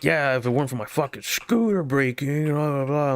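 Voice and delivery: put-on grumbling voice; hammed-up complaint about a broken scooter; mock upset customer. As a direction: imitate a customer griping, sliding into blah-blah. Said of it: "getting very upset at me".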